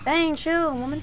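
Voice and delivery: high, loud startled protest. Real, not acted. Gamer startled by the chasing woman, high loud protest. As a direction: yelp it out at her.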